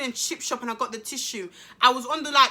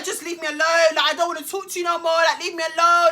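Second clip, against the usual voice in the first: higher, hurried brush-off getting louder; agitated retold protest; re-enacted upset refusal; 4 semitones higher, 5 dB louder, faster than usual. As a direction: act out pushing him away, rushing the middle. Acting out her upset refusal.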